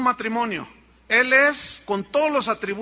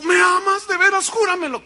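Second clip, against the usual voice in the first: high, loud, insistent wife begging to hear it; wife demanding he swear his love; pleading wife; 10 semitones higher, 8 dB louder than usual. Acted.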